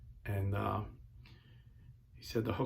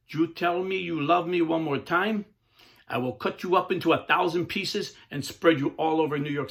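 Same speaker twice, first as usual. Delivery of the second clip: loud, high menacing threat; angry threat; 6 semitones higher, 6 dB louder than usual. Retold or imitated. Gang leader threatening the preacher, loud and furious. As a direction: snarl the threat in a rage. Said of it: "I got so angry".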